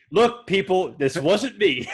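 slightly emphatic mock disclaimer; lightly acted director disowning the film; hint of a defensive public statement; Zack Snyder. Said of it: "Zack Snyder's like".

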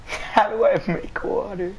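slow, whiny mocking repeat; mocking imitation. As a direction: parrot his question back to tease. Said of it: "You sound like every flat".

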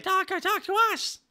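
very high squeaky mock voice; pleading viewers. Viewers begging the streamer to talk, mock squeaky plea. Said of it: "and you're like".

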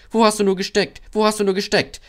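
high, loud scolding chorus; annoyed. A narrator's reading. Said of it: "fragten die Wagen verärgert".

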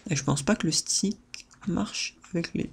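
usual speaking voice

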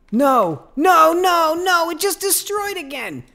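high, loud cries of dismay; despairing shout. Real, not acted. Gamer yelling as his spawner gets destroyed, anguished shout. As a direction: yell as the build breaks again. Farm block destroyed again.

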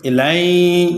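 "লাই" with the final y held and hummed through the nose; ghunnah. Shown as a demonstration. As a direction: hold the glide at the end of "লাই" as a nasal sound. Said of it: "ইয়া আবার গুন্না হবে".

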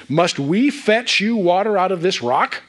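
mildly acted prophet taking the credit; self-important Moses. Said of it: "he's on an ego trip".

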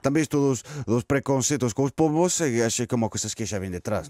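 hesitant Portuguese with a put-on Spanish accent; comic Spanish-accented Portuguese. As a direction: stumble through it like a Spanish-accented pigeon interviewee. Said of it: "estou com sotaque espanhol".

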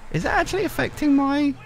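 high, squeaky voice cracking up; helpless laughter. Real, not acted. Player laughing at that wobbling wheel, helpless laughter. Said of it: "was laughing at that wheel".

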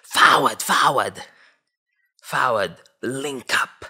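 loud Toronto slang "forward, forward". Acted. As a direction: bark it like Toronto roadman slang. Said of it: "I forgot how they talk".

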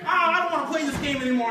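a lightly voiced goblin, high and fast, complaining; whiny goblin. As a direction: whine like a sore loser goblin. Goblin losing coins, whining.

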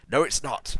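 angry shout. A narrator's reading. Ebony rejecting Vampire's comfort, angry shout. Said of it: "I shouted angrily".

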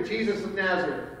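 respectful. Shown as a demonstration. Preacher showing how believers say the name, respectful. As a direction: say the name gently, with honor. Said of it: "we say that with a respect".

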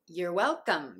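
"you're" in "you're welcome" as "yer"; reduced YOU'RE. Shown as a demonstration. Teacher showing the result, "you're" said as "yer". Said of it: "yourと発音するので".

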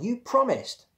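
high, loud accusing yell. A narrator's reading. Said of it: "he yelled".

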